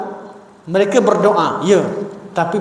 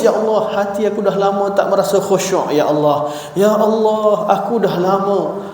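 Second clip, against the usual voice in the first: a touch of weepy lament in prayer; imitating tearful prayer. (meniru rintihan doa sambil menangis)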